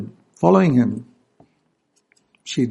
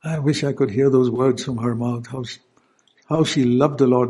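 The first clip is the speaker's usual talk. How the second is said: usual speaking voice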